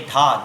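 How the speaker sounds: dha said low and firm; syllable dha. Shown as a demonstration. Teacher introduces first tabla syllable, firm and clear. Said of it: "known as dha".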